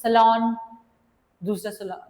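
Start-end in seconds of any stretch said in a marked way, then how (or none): 0.0-0.4 salon set apart after a pause, louder; second syllable. Shown as a demonstration. Teacher counting syllables for pupils, salon set apart loudly. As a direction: punch out salon as its own separate piece. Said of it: "दूसरा syllable".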